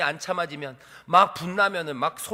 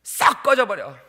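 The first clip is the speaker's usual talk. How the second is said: loud, furious get-lost shout; 2 semitones higher, 6 dB louder, slower than usual. Acted. Balak driving Balaam away, angry shout. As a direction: explode on the first word. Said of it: "소리 지르는 거야".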